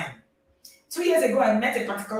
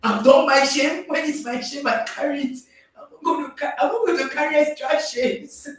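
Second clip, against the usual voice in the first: put-on higher, louder defiant kids voice; defiant children; 5 semitones higher, 3 dB louder than usual. Children refusing to carry their parent's shame, loud and defiant. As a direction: play the kids refusing the blame, tossing it back. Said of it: "they say".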